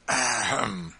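a stalling ahem; throat clearing. A narrator's reading. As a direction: clear the throat to buy time. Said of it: "gaining time".

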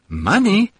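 high, sharp disbelieving question; man retorts in disbelief to the maid; incredulous retort. Acted. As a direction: throw the word back at her in disbelief.

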